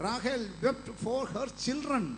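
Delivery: very slow, deliberate phrasing; slow verse reading. Shown as a demonstration. Preacher restating the verse for the congregation, very slowly. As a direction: stretch each word of the line.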